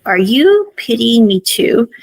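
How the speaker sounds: slow, puzzled retold question; confused. Day questions Mock after the kiss, mildly confused. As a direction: ask it slowly, lightly acting out confusion. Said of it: "kind of confused here".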